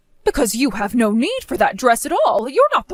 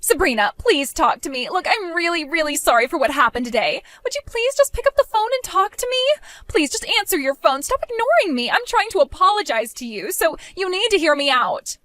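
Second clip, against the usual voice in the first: pleading; 4 semitones higher than usual. Acted. Begging on the phone.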